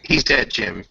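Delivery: Star Trek quote. Retold or imitated. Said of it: "Star Trek quote".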